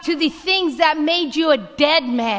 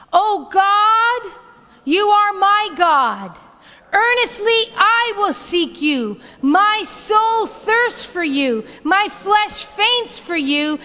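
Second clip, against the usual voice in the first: fervent prayer; 3 semitones higher than usual. Acted. Pastor reading the psalm as a prayer with the band, fervent. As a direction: pray the psalm out with full fervour.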